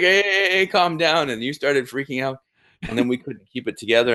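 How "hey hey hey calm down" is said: high, louder imitation of panicked pleading; mock-frantic, trying to calm the attackers; retelling a friend's panic in a raised, high voice. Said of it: "And you panicked".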